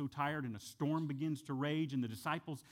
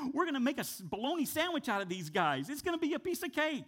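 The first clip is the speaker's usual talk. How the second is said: cocky Joshua and Caleb; 8 semitones higher, 4 dB louder, faster than usual. Retold or imitated. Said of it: "That's what Joshua and Caleb are saying".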